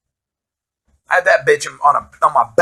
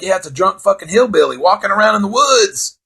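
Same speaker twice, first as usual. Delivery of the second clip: mock agreement; 7 semitones higher, 3 dB louder than usual. Mocks the drunk dude theory.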